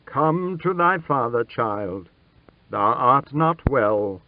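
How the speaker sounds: gentle fatherly voice, lifted then easing down; a touch of kindly concern. A narrator's reading. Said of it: "said in a gentle voice".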